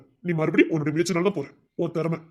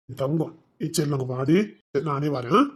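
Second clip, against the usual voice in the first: tender coaxing; 4 semitones lower than usual. Acted. Husband soothing his crying wife.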